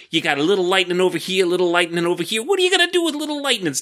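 high, hyped TV salesman voice; infomercial pitch. Acted. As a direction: sell it like a late-night ad. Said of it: "It's like a Jerry Bateman commercial".

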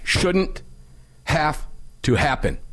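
mock solemn eulogy voice; funeral voice. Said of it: "He goes into funeral voice".

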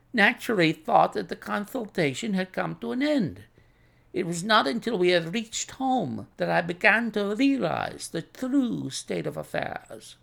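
lightly voiced son explaining; Russian's son. Son explains leaving to the doctor, lightly voiced.

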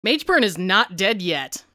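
ordinary talk, nothing marked

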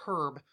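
"herb" with the H sounded; "herb" said with a breath of H first; British "herb". Retold or imitated. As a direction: pronounce the H at the start of "herb". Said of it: "how they say".

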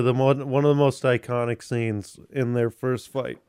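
talking through a burp; holding back a burp. Real, not acted. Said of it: "like, burping".

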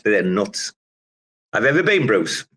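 ordinary talk

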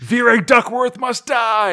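loud, slow menacing declaration; villain shout. Acted. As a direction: bellow the threat slowly. Butler acted in comic retelling.

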